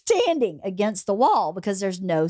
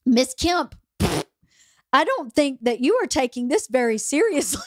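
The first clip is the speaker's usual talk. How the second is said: measured, higher voice as a lightly played judge; stern judge; 4 semitones higher than usual. Judge scolding the giggling defendant, lightly voiced and measured. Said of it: "and he goes".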